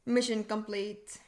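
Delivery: slow, even robot voice; a generic robot voice. Retold or imitated. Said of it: "generic robot voice".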